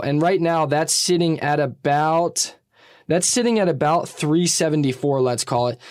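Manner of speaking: muffled under a towel; towel over head. Real, not acted. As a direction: talk through a towel draped overhead. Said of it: "I have a towel over my head".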